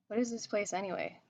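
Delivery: put-on thick Scottish accent. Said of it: "in a thick Scottish accent".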